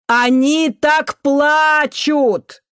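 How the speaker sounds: loud and high, yelled over shrieking; high shout above the din; shouting over the noise. Acted. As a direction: cry it out over a wailing crowd. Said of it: "перекричал визг Антонов".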